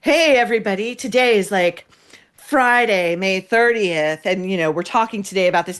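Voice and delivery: mock host announcement. Host imitating Hoda opening the show, lightly mocking. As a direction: imitate a chirpy morning host. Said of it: "who would announce".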